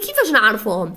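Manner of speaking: students' question. Retold or imitated. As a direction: lightly voice a puzzled pupil's hurried question. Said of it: "تقولوا لي".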